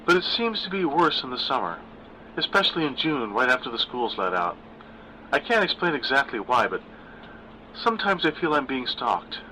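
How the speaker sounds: a hint of nervous daughter; Gwen's voice. Narrator voices daughter Gwen.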